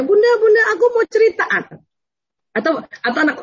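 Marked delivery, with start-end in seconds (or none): 0.0-1.5 put-on much higher, louder child calling for mom; high excited child voice calling Bunda; eager little girl. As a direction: play a child tugging at her mother for attention. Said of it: "anak perempuannya".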